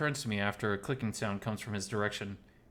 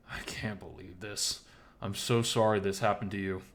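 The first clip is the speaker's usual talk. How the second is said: sympathize with mild worry; gentle and worried. Acted. Oswald consoling Miles over his loss, gentle and worried. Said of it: "he says in a gentle and worried tone".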